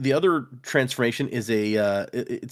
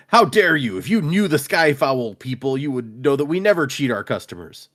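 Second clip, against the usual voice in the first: mock outraged merchant; 4 semitones higher, 4 dB louder than usual. Shopkeeper feigning outrage at Carl.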